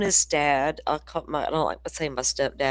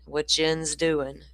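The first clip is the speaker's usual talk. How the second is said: Tennessee drawl; slower than usual. Retold or imitated. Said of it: "he wanted to know".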